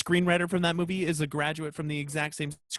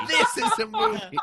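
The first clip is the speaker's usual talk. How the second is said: mock Aussie echo. Echoing the Dundee quote.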